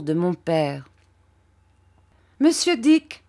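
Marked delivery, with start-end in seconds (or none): 2.4-3.2 calls the name high and loud, rising; sharp raised call to Mr Dick; aunt calling out. A narrator's reading. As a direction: summon Mr Dick across the room. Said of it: "dit ma tante".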